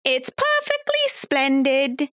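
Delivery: slow, prim put-on British voice; Flora. Co-host quotes a show character, slow impression. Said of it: "And we got Flora".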